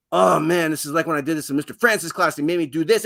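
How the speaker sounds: student tumbling over the memory, fast; eager student. Acted. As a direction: rattle it off fast like an excited kid. Student recalling a past lesson, again.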